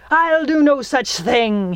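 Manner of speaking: high-edged snarl through bared teeth. Reading a story, a clawed figure answers her after smashing a mirror; snarling. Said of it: "he snarled".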